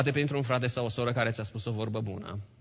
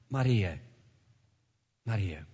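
tender call; 7 semitones lower, 5 dB quieter, slower than usual. Acted. Jesus calls her name.

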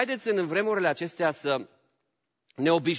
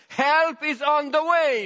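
much higher, louder, slow; high ringing proclamation; 11 semitones higher, 6 dB louder, slower than usual. Acted. Preacher promising the church help is coming, ringing high. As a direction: proclaim it like good news arriving. Preacher's sudden English punchline.

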